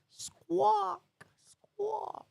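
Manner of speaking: very high squawking parrot. Pretend. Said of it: "that be right, Polly".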